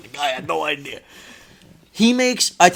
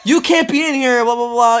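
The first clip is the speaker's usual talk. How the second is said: put-on Jamaican accent; 8 semitones higher, 6 dB louder than usual. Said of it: "thick accent".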